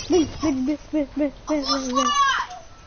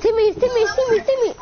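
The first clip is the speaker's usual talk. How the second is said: high calling out; 5 semitones higher than usual. Real, not acted. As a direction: call his name across the map. Calling out to teammate.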